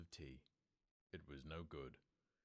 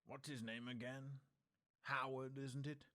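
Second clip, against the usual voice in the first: higher, offhand questioning; a hint of a nervous husband's fake casualness; feigned vagueness; 8 semitones higher than usual. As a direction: pretend you barely remember.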